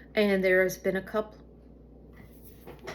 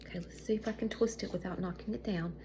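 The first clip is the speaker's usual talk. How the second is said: whisper; 8 dB quieter, faster than usual. Real, not acted. Delicate task, speaking under breath.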